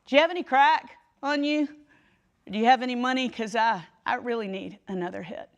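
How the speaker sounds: high, loud desperate yell after someone leaving; yelled call. Retold or imitated. Marie yelling after Lisa, begging for drugs, high and loud. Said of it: "she yelled out".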